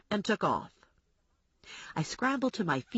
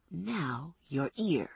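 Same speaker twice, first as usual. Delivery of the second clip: медленная тихая угроза; протяни угрозу медленно и тихо; slow threat; 3 semitones lower, 4 dB quieter, much slower than usual. Acted. Kenny threatens to cut ear.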